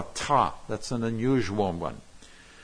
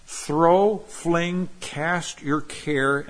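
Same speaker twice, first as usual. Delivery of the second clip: forceful; 6 semitones higher, much slower than usual. Acted. Pastor urging listeners to throw their burden, forceful. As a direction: hurl each verb out, slowing on cast your care. Emphatic paraphrase of the verse.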